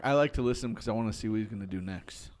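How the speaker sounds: whispered aside; barely voiced, leaning in to whisper. Real, not acted. Quiet aside while others talk.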